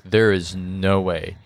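slow, word-by-word disbelief; deliberate, measured dismissal; emphatic refusal. Retold or imitated. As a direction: spell out the refusal slowly. Quoted refusal of a disliked voice.

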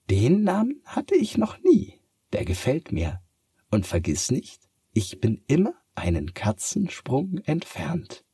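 a cat delighted with its new name. Acted. (hohe, erfreute Katzenstimme)

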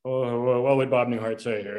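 a touch of Newhart's stammering style; lightly voiced Bob Newhart. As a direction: ease into it like a hesitant Bob Newhart. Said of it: "he would stammer and he'd say".

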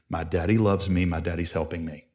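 put-on low, softened model line for a child; gentle, reassuring father voice; calm coaching. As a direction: quietly give him the words to repeat. Father gives son words to scream.

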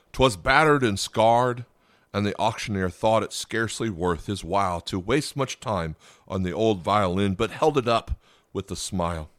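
measured, rhythmic poem reading; poem recital. Acted. Pastor reads the poem to his listeners, measured and rhythmic. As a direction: read it like a recited poem, savouring lines.

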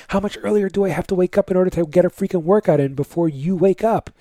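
exasperated father venting about early risers; frustrated outburst. Retold or imitated. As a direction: vent like a dad robbed of his workout. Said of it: "it was like".

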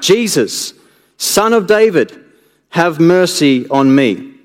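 a beggar calling out for mercy; crying out. Acted. Blind beggar crying to Jesus for mercy, calling out. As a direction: plead aloud to Jesus. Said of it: "he began to cry out".

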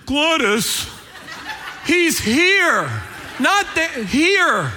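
mock yelling to set someone straight; exasperated father. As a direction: punch each phrase like an impatient husband. Father jumps in, exasperated correction.

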